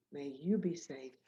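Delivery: soft, tender, fading wishes; quiet heartfelt blessing; sincere blessing. Real, not acted. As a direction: bless the listener gently. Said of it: "I say this to you".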